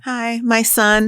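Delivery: a mom beaming about her son; mock proud mom. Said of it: "They're like".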